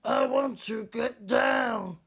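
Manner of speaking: high, loud, slow scared yell; a boy panicking as the earth vanishes; frightened cry. A narrator's reading. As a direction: cry out in fright far from home. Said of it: "Daniel cried out".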